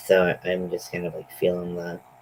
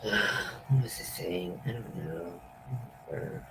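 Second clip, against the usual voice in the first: trailing off; 10 dB quieter than usual. Real, not acted. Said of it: "My brain is fried".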